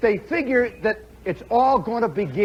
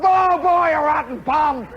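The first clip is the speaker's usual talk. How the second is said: put-on old lady holler; 6 semitones higher than usual. Imitating old ladies in the stands, higher mock holler. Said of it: "little old ladies ... start waking up and holler".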